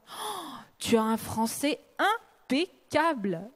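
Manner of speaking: slow, lightly gushing quote; mild mock admiration; gushing compliment. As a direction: imitate someone admiring her French, drawn out. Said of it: "les oreilles des autres qui actent la rupture".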